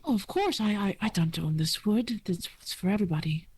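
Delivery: high, cheerful elf greeting; gentle forest elf. Acted. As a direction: welcome the stranger brightly, up high. GM voices Silksong.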